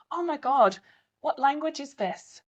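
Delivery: high, gasping tourist; a hammed-up gasp of discovery; mock shocked tourist. Tourist gasping at a local phrase. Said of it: "widen their eyes and whisper".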